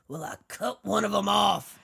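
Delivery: hammed-up convict, half shouting; mock menacing outburst. Mickey confessing his crime to Pee-wee, hammed-up outburst. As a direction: burst out with the confession.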